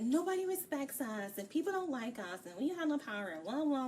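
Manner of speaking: mildly mocked whiny griping; complaining. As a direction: imitate a tiresome grumble, pitch lifting at the end. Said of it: "Fee is constantly complaining".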